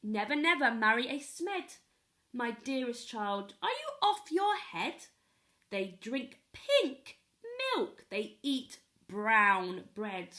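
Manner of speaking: are you off your head, outraged; scandalized grandparent. Acted. Other grandparents forbid the wedding.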